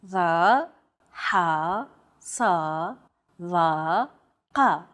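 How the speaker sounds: "Va, ha, sa, va, ka" deep in the throat, tense, separately; emphatic consonants. Shown as a demonstration. Native speaker demonstrates emphatic consonants, tense and deep within the throat. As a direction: constrict the throat on each of "Va, ha, sa, va, ka". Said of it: "pronounced deep within the throat".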